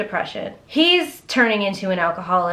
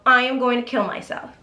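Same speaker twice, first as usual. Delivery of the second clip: mock hysterical wife; 2 semitones higher than usual. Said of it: "Clemence had a f-, meltdown".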